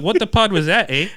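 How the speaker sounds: hammed-up Canadian accent; mock Canadian accent. Friends riffing on Canadians, a mock Canadian accent. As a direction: play a cartoon Canadian with a light touch. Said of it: "Canadian style".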